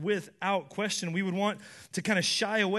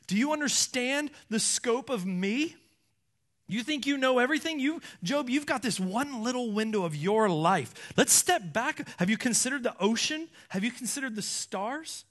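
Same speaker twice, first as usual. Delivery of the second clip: higher-pitched, pressing challenge; hammering questions; 3 semitones higher than usual. Acted. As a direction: hammer each question at him. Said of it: "like, hammering".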